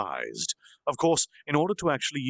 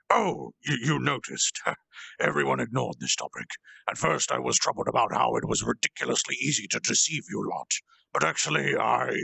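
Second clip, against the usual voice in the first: sly character voice. Acted. Schemer confessing to his captors, lightly voiced and smug. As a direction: tease them with a sly lilt.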